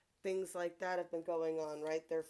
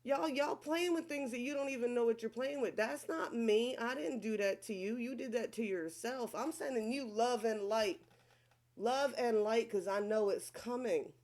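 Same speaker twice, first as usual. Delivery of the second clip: higher and louder, defiant and sure; sassy warning; 5 semitones higher, 4 dB louder than usual. Retold or imitated. Scolding people who send her bad energy, loud and defiant. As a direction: tell them off and bless them at once. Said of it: "I'm like".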